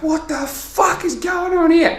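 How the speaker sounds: high, slow incredulous mock outrage; outraged neighbour. Neighbour finding his car roof dented, acted outrage. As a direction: draw it out in high-pitched disbelief.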